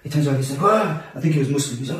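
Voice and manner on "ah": higher-pitched imitated yelp; retold gasp of fright; startled cry. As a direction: mimic a frightened driver's short cry. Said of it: "he gets very scared".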